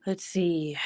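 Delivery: soft whispered aside to herself. Real, not acted. Streamer muttering to herself while checking the stream, whispered. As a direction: breathe it out under her breath.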